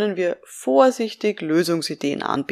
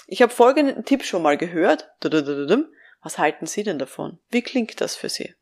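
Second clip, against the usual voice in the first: demonstrating restrained, tactful advice; cautious offer. Shown as a demonstration. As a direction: hand the idea over gently and ask. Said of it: "Formulieren Sie da ganz vorsichtig sowas wie".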